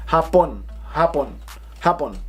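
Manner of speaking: hapon in separate bursts, each falling; exaggerated inflection. Shown as a demonstration. Teacher over-exaggerating for learners, falling inflection on hapon. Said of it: "it's like the inflection".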